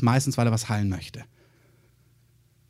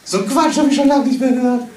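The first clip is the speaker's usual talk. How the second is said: higher, sneering mockery; scornful crowd; 7 semitones higher, 3 dB louder than usual. Mourners scoffing at Jesus, higher sneering voice. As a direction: scoff like a jeering bystander.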